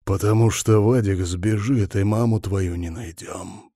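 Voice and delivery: ordinary delivery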